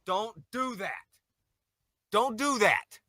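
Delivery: high, shouted blubbering plea; hammed-up sobbing "don't cry"; mock crying wail. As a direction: wail it like a grown man sobbing his heart out. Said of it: "without going into the goddamn crying".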